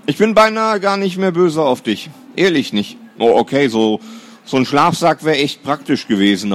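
a brother pretending he isn't angry, forced cheer; forced cheerfulness. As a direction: lay the fake good mood on thick. Brother fakes cheerful acceptance.

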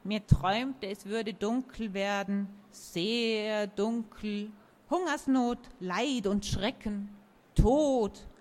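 slow, dark prophetic tree; ominous murmur. Acted. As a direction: murmur the dark vision slowly.

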